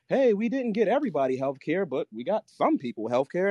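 a hint of a mournful president; sad Obama speech. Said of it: "that sad Obama speech".

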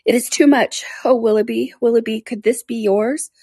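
high anguished outburst; exclaiming. Acted. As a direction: burst out at the letter.

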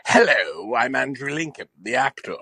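put-on British accent; lightly hammed British accent; Andrew Lincoln. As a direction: introduce yourself as a British actor. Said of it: "Real Andrew Lincoln talks like this".

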